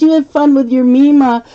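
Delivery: grandma's sendoff. Retold or imitated. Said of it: "She goes".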